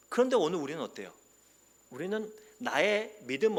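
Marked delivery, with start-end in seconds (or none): none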